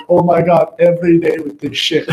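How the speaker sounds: mock exasperation. Friend teased daily over a song, mock fed-up. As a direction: complain as the long-suffering target of a joke.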